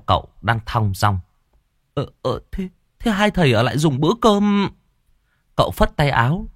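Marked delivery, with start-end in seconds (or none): 1.9-4.7 high, hurried call after the monks; hasty host. Acted. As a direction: call them back in a flustered rush.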